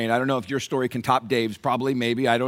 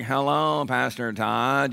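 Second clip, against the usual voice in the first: imitating Dave; 3 semitones lower, 5 dB quieter, much slower than usual. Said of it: "annoying nasal, kinda monotone voice".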